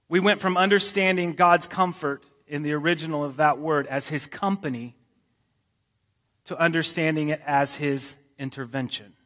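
each phrase drawn out slowly for the listeners; slow it right down so they can follow. Shown as a demonstration. Pastor slows down to explain the word to the congregation, deliberate pace. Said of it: "I'm gonna say this very slowly".

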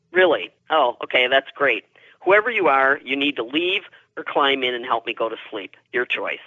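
retold mild exasperation; irritated. She addresses the unseen visitor in her head, mildly irritated. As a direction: tell off an intruder, lightly annoyed. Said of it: "I was irritated at that point".

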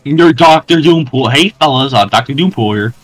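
lightly put-on streamer intro; mock his greeting to fans, a touch exaggerated; mocking imitation. Teammate parodies Doctor Doompool greeting his fellas, mocking.

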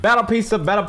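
mock Italian accent. Teasing the friend's Papa John ads, Italian accent. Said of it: "You sound like fucking Mario".

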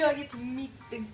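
light mock Italian accent. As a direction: play the Italian chef, lightly. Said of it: "I'm talking Italian".

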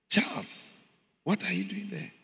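high, startled question; shocked question. Retold or imitated. Man asking his friend in hell, startled. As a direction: ask in disbelief.

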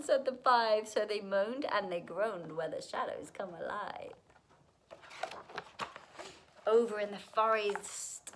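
put-on lilting rhymed storytelling for children; animated children's story reading; story narration. A narrator's reading. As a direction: read a picture book aloud in rhythm. Reads a rhyming picture book aloud.

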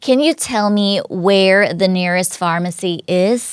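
slow, careful example reading; model sentence read-out. Shown as a demonstration. Teacher reads the example sentence slowly to students.

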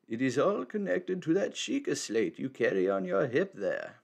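lightly voiced wise old man; a hint of a cryptic elder. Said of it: "I gotta go back to it".

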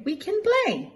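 high, light cub voice; Baby Bear cheerfully inviting the girl back; little Baby Bear voice. A narrator's reading. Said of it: "says Baby Bear".

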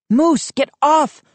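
high, pleading shout; wailing. A narrator's reading. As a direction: wail at him to stop. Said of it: "I wailed".

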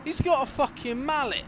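high, loud panicked exclamation; alarmed shout. Real, not acted. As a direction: yell it in alarm. Player alarmed by enemy weapon.

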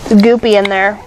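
talking through a mouthful; mouth full. Real, not acted. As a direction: speak while chewing candy. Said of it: "talking with my mouth full".

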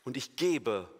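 GEBE set apart with weight, falling after it; stress on GEBE. Shown as a demonstration. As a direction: lean on the verb "gebe", then pause. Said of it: "Betonung auf dem Verb geben". (Betonung auf GEBE)

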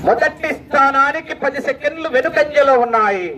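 ordinary-pitched announcement with a long falling end; measured announcer repeat. Real, not acted. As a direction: restate it evenly, letting the ending sink. Same result repeated in lower pitch.

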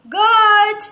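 loud, high, drawn-out word; reading out loud. Shown as a demonstration. Teacher models a word for children, loud and drawn out. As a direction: sound it out loudly on a held high note. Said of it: "મોટેથી વાંચજો".

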